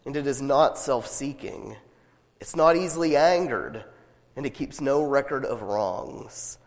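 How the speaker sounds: measured, solemn Bible reading; scripture reading. Acted. Reads scripture passage.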